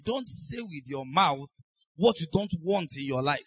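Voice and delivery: slow, deliberate repeat. Shown as a demonstration. Preacher repeating his key line slowly to the congregation. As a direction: say it again slowly so it sinks in. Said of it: "Let me say it again".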